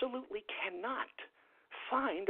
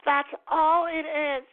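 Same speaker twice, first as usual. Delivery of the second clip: higher, louder, stretched out slowly; slow high mock voice; 6 semitones higher, 11 dB louder, slower than usual. Mock character insisting to listeners, slow and high. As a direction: drag the words out slowly, high. Repeats line slower.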